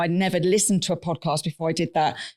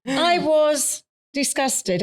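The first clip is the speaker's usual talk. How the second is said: mock disgust; 7 semitones higher, much slower than usual. Real, not acted. Mock outrage at the price.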